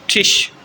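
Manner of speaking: ٹش with a short quick i, as Tisch; German short i. Shown as a demonstration. Teacher demonstrating German Tisch, short i. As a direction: say ٹش briefly. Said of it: "short".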